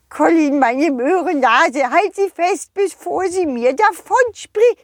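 high, pleading snowman voice; a small snowman begging for help; little snowman voice. Acted. (hohe, flehende Schneemannstimme)

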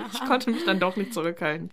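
laughing through the line. Real, not acted. Laughing while admitting she bothered Felix anyway. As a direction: giggle while confessing.

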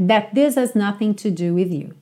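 "this has" melted into "this-as"; diluted H. Shown as a demonstration. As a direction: drop the h of "has" and link it to "this". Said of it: "o que você ouve mesmo é".

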